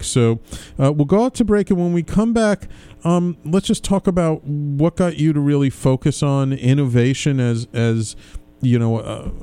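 radio host announcement. Acted.

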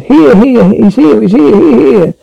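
high, repeated hailing call; shouted call. A narrator's reading. The dog calls to someone a long way away, calling out. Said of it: "he shouted".

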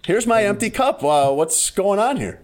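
high, gentle, drawn-out query; too-kind complaint. Shown as a demonstration. Customer querying an empty cup, far too kind. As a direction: gently point out the problem. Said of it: "It was far too kind".

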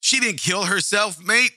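a cartoonish British bloke saying Oi and mate; playful over-the-top British impression; mock British accent. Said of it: "the British don't say crikey. They say".

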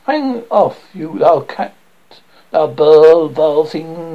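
loud, furious push-off; angry shout. Acted. Lysander shakes off Hermia, angry shouting. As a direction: fling the insults at her full voice.

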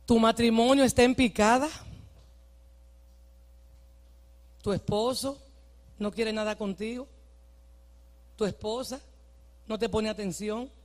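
very soft, low, with long pauses; hushed preaching. Real, not acted. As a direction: speak gently into their private troubles. Softly names the congregation's private troubles.

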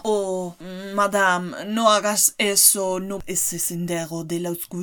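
lightly imitated French accent; slow, fussy French accent for Poirot. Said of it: "acento francés, el peor de, de, del universo".

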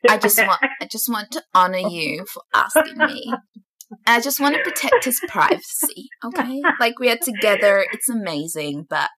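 mock influencer. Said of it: "making fun of influencers being like".

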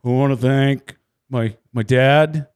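lightly voiced lame winner speech; mocking dull driver. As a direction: mumble thanks like a bored racer. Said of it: "like the rest of you".

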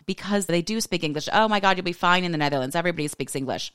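high, gushing, dismissive reassurance; mock the carefree married friends; breezy friends mocked. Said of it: "married friends are like".

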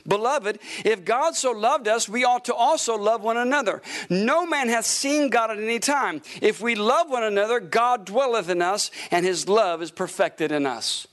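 measured, steady reading of scripture. Acted. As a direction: read the verses out like a preacher. Reads scripture aloud from pulpit.

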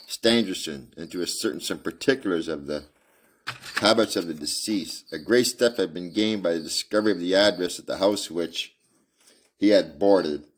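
reading a Sherlock Holmes novel aloud; story narration. Acted. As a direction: read it out like a storyteller.

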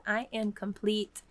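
lightly voiced solemn prophet, slow; a hint of a grand prophet proclaiming. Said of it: "So in my prophet grant voice".

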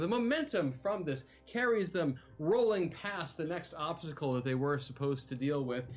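lively, dramatic scene setting; game master narration. A narrator's reading. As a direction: narrate the action like an epic tale. Game master narrates the arena action.

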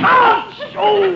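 sharp high ouch of pain; pained yelp. Acted. Steps on his sore foot.

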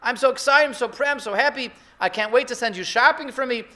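excited proud parent. Retold or imitated. Parent gushing to the kid with a new license, excited. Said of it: "You tell your kid".

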